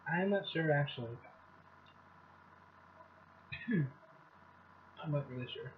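chewing while talking; speaking around food; mouth full. Real, not acted. Seen 3: Forkful taken at -4; lips pursed, jaw working between phrases.

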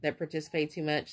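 stumbling over words; tripping on the words, stuttering. Real, not acted. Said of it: "Sorry, I'm stuttering".

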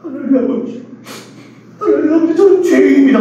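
hammed-up crying plea to God; mock tearful prayer. Imitating a friend repenting at a retreat, mock sobbing prayer. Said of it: "갑자기 우는 거야. 내가 울면서".

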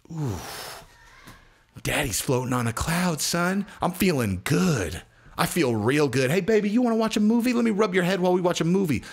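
dreamy stoned voice; a touch of a blissed-out addict; blissed-out high. Retold or imitated. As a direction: float through it like a happy stoner.

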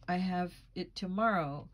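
lightly mocking imitation of a flimsy excuse; a mild mock of the tenant's promises; mimicking Lily. Landlady mocking Lily's excuses, a light mimicry. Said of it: "the woman mimicked Lily's breathy voice".

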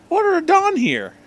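squeaky high character voice; high-pitched teacher voice. Acted. Teacher greeting her old student in a squeaky high voice.

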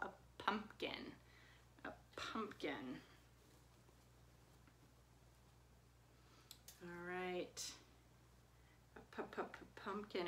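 pumpkin softly, then pu-pu-pu-pumpkin; letter sound demo. Shown as a demonstration. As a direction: repeat the pu in pumpkin. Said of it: "P says P".

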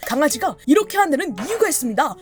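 quick, announcing explainer delivery; informational reel presenter. Retold or imitated. Imitating dog education reels, fast explainer voice. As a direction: rattle it off like a short-video host. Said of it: "이런 식으로 약간 강아지 정보를 알려주는".

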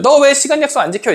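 high, acted scolding; strict with others. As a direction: take a friend to task over lateness. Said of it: "남에게는 엄격해져".

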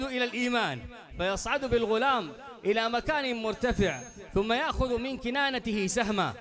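fast, pushing Arabic narration toward the climax; building sermon narration. Acted. Preacher building to the arrow scene before the crowd, quick and rising. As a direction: drive the story forward with mounting energy.

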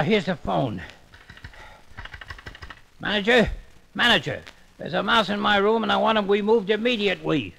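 mild, polite cartoon everyman; a gentle guest asking for a room; Elmer Fudd voice. Elmer books a ten cent room, mild cartoon voice. Customer voice.

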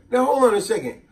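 slow it down like a warning; stern aunt. Retold or imitated. Aunt questions the kid, stern and slow. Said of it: "she said".

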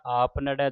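"ਨੜੈ" ending in an open ai. Shown as a demonstration. Teacher shows the dulavan vowel, open "ਨੜੈ". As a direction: say "ਨੜੈ" with ai, not e. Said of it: "ਦਲਾਵਾਂ ਦੇ ਨਾਲ ਉਚਾਰਨ ਕਰਨਾ ਹੈ".

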